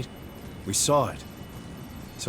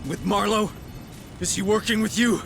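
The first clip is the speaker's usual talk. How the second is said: angry accusation; 8 semitones higher than usual. Acted. A mother accusing the director of lying about her daughter, in fury. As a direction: tear into him, sure he's lying.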